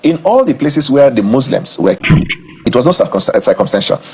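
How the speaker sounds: slow, deliberate, word by word; over enunciating. Real, not acted. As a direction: spell it out slowly for them. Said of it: "I will say it slowly so you can understand".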